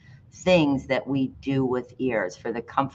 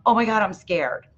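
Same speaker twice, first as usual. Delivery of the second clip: scared; 7 semitones higher than usual. Shown as a demonstration. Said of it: "what would be an emotional tone?".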